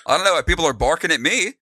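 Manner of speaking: innocent. Acted. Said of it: "hands up innocently".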